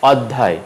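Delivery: অধ্যায় with open "aw"; wrong pronunciation. Shown as a demonstration. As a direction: say অধ্যায় as "awd-dhay". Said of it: "অধ্যায় নয়".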